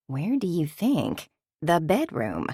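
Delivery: a hint of a sly whisper; suggestive. Mother covers daughter's ears.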